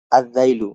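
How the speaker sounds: "আর যাইলু" said as "adh-dhailu", no l; silent lam, doubled dhal. Shown as a demonstration. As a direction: hold the first consonant of "যাইলু". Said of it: "জালটি সরাসরি উচ্চারণ হয়েছে".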